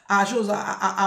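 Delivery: ordinary talk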